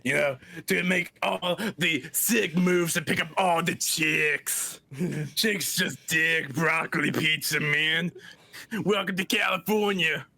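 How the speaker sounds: lightly voiced surfer dude; California surfer dude. Shown as a demonstration. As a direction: stay in the chill California dude bit, softly. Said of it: "need a California, dude".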